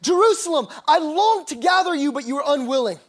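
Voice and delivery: mildly acted grief, calling out with longing; weeping lament.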